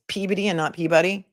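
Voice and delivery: first Peabody squeezed to PEE-buh-dee, second Peabody full PEE-bah-dee; local versus spelled pronunciation. Shown as a demonstration. Host checking with chat, Peabody said local way, then as spelled. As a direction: contrast clipped-vowel Peabody with spelled-out Peabody. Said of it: "which you guys are telling me is".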